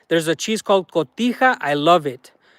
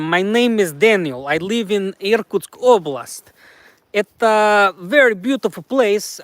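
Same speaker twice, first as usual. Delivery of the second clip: light put-on Russian accent, broken English; a mild mock Russian accent. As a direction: play a Russian guy introducing himself, lightly accented. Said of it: "please speak with a Russian accent".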